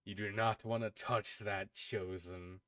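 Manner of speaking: a quiet warning from inside someone's head; lightly voiced otherworldly power, falling away softly. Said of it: "hear the voice in your head saying".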